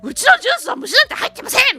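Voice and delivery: high, loud and fast mock outburst; angry French lady. Shopkeeper denies a bug in her juice, high, loud and fast. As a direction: snap back like an indignant shopkeeper. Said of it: "おばさんがもう超怒っちゃって".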